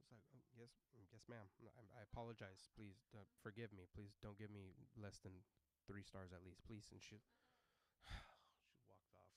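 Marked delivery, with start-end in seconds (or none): 0.4-6.9 subdued, apologetic begging; meek pleading. Retold or imitated. Driver begging passenger for stars, meek apology. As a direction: plead timidly with a touch of panic.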